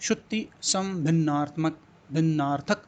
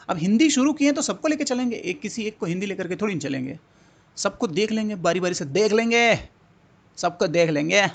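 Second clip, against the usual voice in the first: excited boast; 4 semitones higher, 4 dB louder than usual. Real, not acted. Teacher boasts, taking everyone along.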